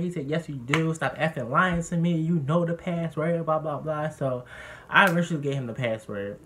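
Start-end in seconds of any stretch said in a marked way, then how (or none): 0.3-4.1 high, louder mock of an angry dad; retold angry yell. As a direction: imitate a father yelling an accusation. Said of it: "he yelled downstairs".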